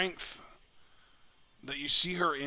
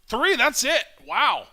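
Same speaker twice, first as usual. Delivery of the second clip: much higher, louder shout at the win; excited shout; 9 semitones higher, 11 dB louder, slower than usual. Real, not acted. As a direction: erupt as the pin lands. The winning pinfall count.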